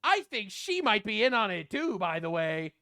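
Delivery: quick mock-suspicious Candace. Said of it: "and then she says".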